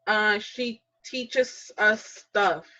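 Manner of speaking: put-on slow, eager little kid answering; child pupil voice. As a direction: play a kindergartner naming things. Adult plays kindergarten pupil answering.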